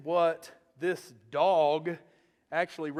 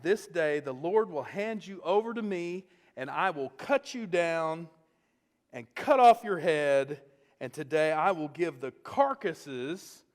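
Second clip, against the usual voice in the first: ringing, defiant proclamation; young fighter calling out the giant, ringing and defiant; bold declaration; 5 dB louder than usual. Retold or imitated. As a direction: proclaim it like a battle cry. David's defiant speech, loud lines.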